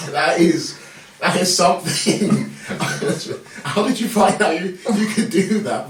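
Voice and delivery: laughing. Real, not acted. Laughing at the priest's noise.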